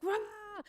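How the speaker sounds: high, held-back roar; mock battle roar. Acting out Garp lunging to fight, half-hearted roar. Acts Garp straining to attack.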